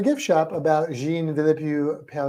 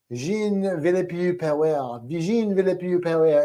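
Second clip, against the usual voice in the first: put-on amateur French accent, stretched at first; bad French accent. Teacher practicing a French name before class, bad French accent. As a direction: rehearse the name in a shaky-grade French accent. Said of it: "doing this French accent".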